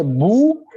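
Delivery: slow drawn-out mock "bu"; grandma scaring the girl, slow hammed-up boo; spooky boo. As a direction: stretch the "bu" like a mock scare. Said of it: "la abuelita asusta a la niña".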